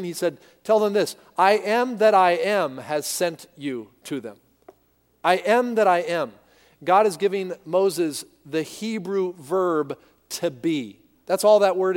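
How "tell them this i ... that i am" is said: lightly voiced commanding God. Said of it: "God said to him".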